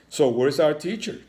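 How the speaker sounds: a cat asking eagerly, voice lifted; curious cat. A narrator's reading. Cat asks the principal where the teacher is, lightly voiced. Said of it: "asked the curious cat".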